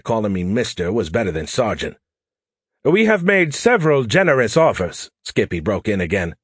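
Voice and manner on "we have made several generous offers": put-on an Englishman fumbling with his phone, British accent. Diplomat's offer.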